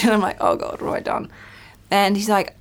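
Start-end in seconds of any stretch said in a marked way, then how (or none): 0.4-1.3 breathy whisper of dread; whispered panic. Retold or imitated. Daughter hearing her father call, whispered dread. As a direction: whisper it like you've been caught.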